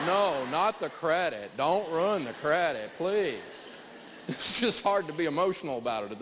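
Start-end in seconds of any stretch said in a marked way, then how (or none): 0.1-3.7 sarcastic mock plea. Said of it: "And I went".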